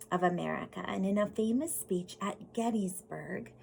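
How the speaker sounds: put-on storybook reading voice for kids; gentle classroom story read; reading to children. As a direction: read it like a picture book to the class. Reads picture book aloud.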